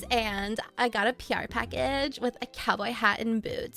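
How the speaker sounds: imitating an influencer talking to her stories; Instagram-famous girl. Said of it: "this girl ... became Instagram famous".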